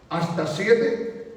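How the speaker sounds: drawn out, rising doubt; slow doubtful question. Retold or imitated. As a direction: stretch it like Peter bargaining. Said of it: "y le dijo".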